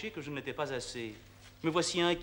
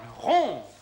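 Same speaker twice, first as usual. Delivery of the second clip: shocked disbelief; 6 semitones higher, 7 dB louder than usual. Acted. Lover hears offer to break engagement.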